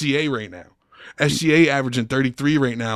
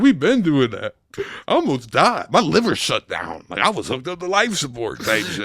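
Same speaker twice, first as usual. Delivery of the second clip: flexing brag; 3 semitones higher than usual. Retold or imitated. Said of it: "It sounded like he was on some flexing shit".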